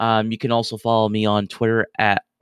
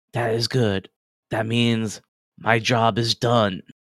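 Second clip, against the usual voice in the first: put-on old man character voice. A character answers the person he met earlier, in an old man's voice. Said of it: "the familiar old man's voice".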